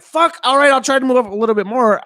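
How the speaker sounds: high, loud put-upon grumble; mock exasperation. Driver answering honking lady behind, mock exasperation. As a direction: give in loudly, throwing up the hands vocally.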